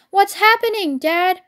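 lightly acted alarmed cry of a child. A narrator's reading. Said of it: "cried the small foxes".

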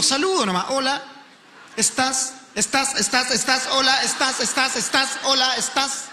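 casually greeting strangers online, repeating hola estás; lightly voiced flirting guy. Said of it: "Yo me instalo".

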